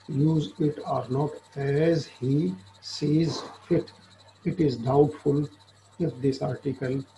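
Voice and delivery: reading the law text aloud very slowly, word by word; slow statute reading. Acted. Lecturer reading the statute to law students, slow dictation. Reads commentary on the article aloud.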